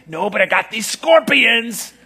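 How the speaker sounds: slow, loud sarcastic father; sarcastic dad offering scorpions. Retold or imitated. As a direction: lean into the mockery. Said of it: "he gets even more sarcastic".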